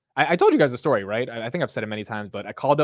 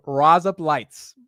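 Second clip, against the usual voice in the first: slow, louder Australian accent; 4 semitones higher, 5 dB louder, much slower than usual. Shown as a demonstration. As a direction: relish it slowly in an Australian accent. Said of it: "in an Australian accent".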